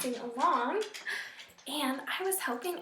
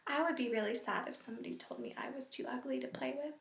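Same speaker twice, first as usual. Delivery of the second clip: soft sincere; 2 semitones lower, 7 dB quieter, faster than usual. Real, not acted. Teacher shares feeling softly.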